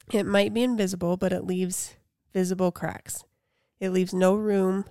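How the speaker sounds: measured read-aloud of a reflective post; steady recital with pauses between phrases. Acted. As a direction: read it out evenly, letting each listed item land. Reads a quote aloud.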